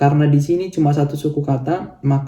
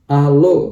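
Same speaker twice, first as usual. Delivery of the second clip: "alo" with the final "o" raised and louder; stress on last syllable; 3 dB louder than usual. Shown as a demonstration. Teacher showing learners the correct final stress. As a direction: push the stress onto the "o" of "alo". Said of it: "karena dia penekanannya di O yang terakhir".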